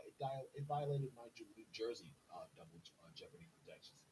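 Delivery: stumbling over the words; halting, tripping restarts; stuttering. Real, not acted. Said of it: "Forgive me for stuttering".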